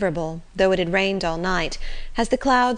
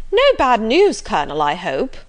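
eager inquiry; 5 semitones higher, 7 dB louder than usual. Acted. Mrs Jennings questioning the Colonel as he returns, eager.

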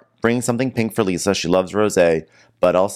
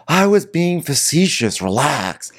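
mock snide Schwartz; 8 semitones higher, slower than usual. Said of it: "Schwartz is like".

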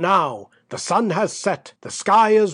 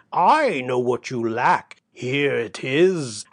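sly tempter; 4 semitones lower than usual. Acted. Basavriuk tempts Peter.

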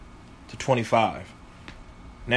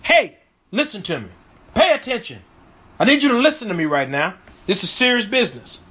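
emphatic plea; 2 semitones higher, 3 dB louder, faster than usual. Acted. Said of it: "that's emphatic".

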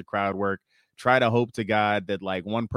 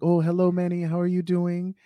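higher-pitched imitated Texas lady; Texas accent; 7 semitones higher than usual. Client greeting the comedian before the show, imitated Texas accent. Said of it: "that's a Texas accent".

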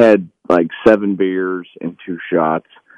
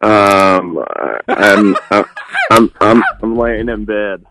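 hungover voice; 4 dB louder, much slower than usual. Real, not acted. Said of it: "all three of them have sounded like this".

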